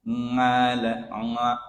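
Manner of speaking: 'Ngala, nga' starting on ng; ain as nga. Shown as a demonstration. Teacher offering an easier ain, ng sound. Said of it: "Kalau sulit membacanya dengan a".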